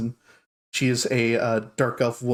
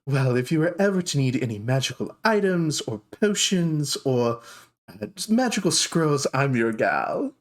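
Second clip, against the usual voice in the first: much higher, gushing shopkeeper voice; dark elf shopkeeper greeting surprise customers, high and gushing; 3 semitones higher than usual. Acted. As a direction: coo at unexpected guests. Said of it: "and she goes".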